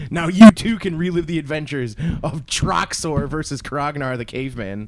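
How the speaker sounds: loud mock commercial voiceover; ad announcer. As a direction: sell it like an eighties toy ad.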